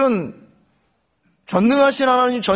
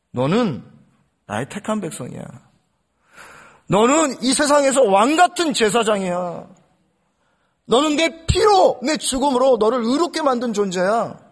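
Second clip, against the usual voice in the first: voicing God. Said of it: "이렇게 말씀하십니다".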